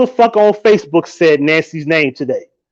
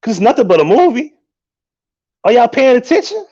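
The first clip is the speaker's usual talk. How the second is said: raised, incredulous "are y'all watching"; pitched up in disbelief, pleading with the crowd; exasperated disbelief; 6 semitones higher than usual. Retold or imitated. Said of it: "I'm like".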